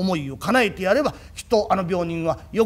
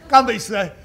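pleading through laughter; much faster than usual. Acted.

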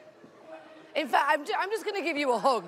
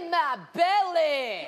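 put-on Scottish accent; 6 semitones higher, 3 dB louder than usual. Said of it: "Just trying to copy".

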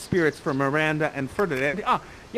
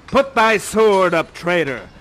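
commanding Prospero; 3 semitones lower, 6 dB louder than usual. Acted. Prospero confronts armed Ferdinand.

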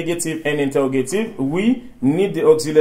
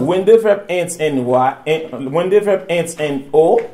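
dictée lente. Shown as a demonstration. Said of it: "allez, repeat after me".

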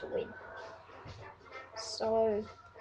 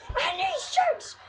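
mock commentator call; 11 semitones higher than usual.

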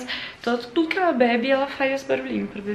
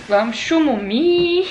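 put-on slow, louder cooing baby talk; 3 semitones higher, 7 dB louder, much slower than usual. Talking to her mother like to a grandchild, slow cooing baby talk. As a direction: coax a little one to sleep. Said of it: "Igual fala pro netinho".

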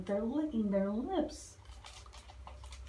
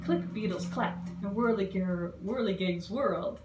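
a lightly voiced read-aloud to children; rhyming storybook reading. A narrator's reading. Librarian reading the bug story to kids, gentle read-aloud. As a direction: read the rhymes to the little ones. Reads picture book aloud.

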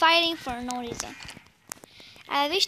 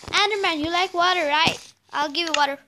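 calling out; 6 dB louder than usual. Real, not acted. Calling to the Enderman.

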